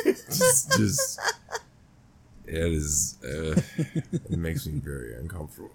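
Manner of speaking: laughing through words; words breaking into giggles. Real, not acted. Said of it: "I'm dying".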